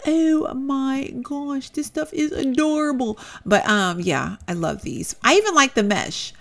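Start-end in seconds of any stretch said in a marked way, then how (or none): 0.1-3.2 gushing. Retold or imitated. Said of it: "it's like".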